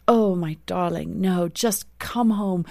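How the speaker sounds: put-on dad's loving South African accent; imitated South African British accent, welcoming her home. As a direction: do a doting father with a South African British lilt. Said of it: "in his beautiful South African British accent".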